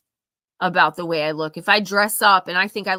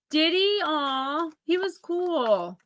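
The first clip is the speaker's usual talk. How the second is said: a fond, surprised coo; surprised aww; 8 semitones higher, much slower than usual. Real, not acted. Reacting tenderly to chat.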